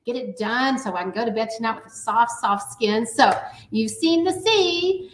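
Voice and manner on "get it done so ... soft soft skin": talking with a drying face mask. Real, not acted. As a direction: speak through a setting face mask. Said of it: "my mask is drying really well".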